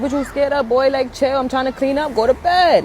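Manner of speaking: put-on mildly fed up, pushing the kid off to bed; exasperated parent. Parent sends scared son to bed, exasperated.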